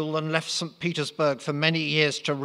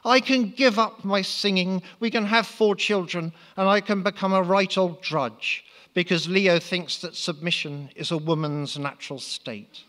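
higher, lightly voiced young woman; girlish Natasha; 6 semitones higher, 3 dB louder than usual. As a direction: chirp it brightly, pitched up.

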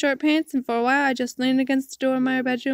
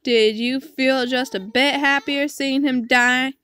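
angry accusation; 4 dB louder than usual. Acted. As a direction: accuse your father, drawing out the words. Acted furious accusation of father.

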